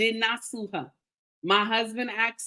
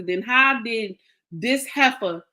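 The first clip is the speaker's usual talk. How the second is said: slow, emphatic indignant demand; retold outrage; slower than usual. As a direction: act out being beside yourself, drawn out. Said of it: "I was going crazy".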